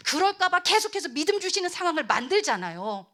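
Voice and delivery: ordinary delivery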